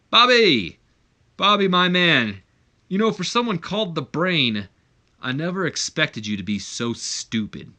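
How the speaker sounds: loud, high calling out; mock shout. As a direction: hail the commentator across the ring. Shane yells at commentator.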